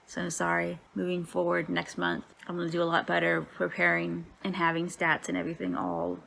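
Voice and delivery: sore mouth after dental surgery; talking weird after teeth pulled. Real, not acted. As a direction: speak around freshly pulled teeth. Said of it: "if I'm talking weird, it's 'cause I just had some teeth pulled".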